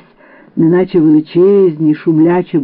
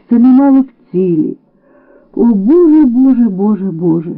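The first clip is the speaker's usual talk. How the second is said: despairing; 5 semitones higher than usual. Acted. Despairing outcry to God.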